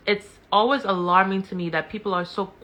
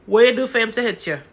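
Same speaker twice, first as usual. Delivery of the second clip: mocking the crowd's question; 4 semitones higher, 8 dB louder, faster than usual.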